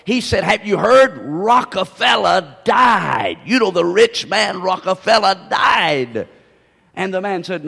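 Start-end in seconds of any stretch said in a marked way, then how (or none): 0.4-6.3 hammed-up wail, slow and drawn out; stretched-out mock distress for a joke; mock crying. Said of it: "He was crying vehemently".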